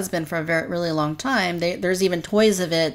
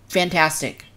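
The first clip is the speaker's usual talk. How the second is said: normal talking voice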